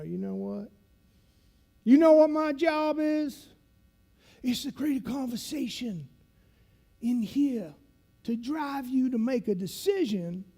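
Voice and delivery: imitated instructor, high and emphatic; instructor's voice. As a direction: spell out your job as the veteran instructor, pausing between phrases. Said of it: "he talks like this".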